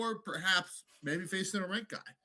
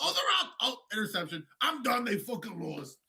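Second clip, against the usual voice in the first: dad watching football; 5 semitones higher, 4 dB louder than usual. Retold or imitated. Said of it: "like my dad watching football".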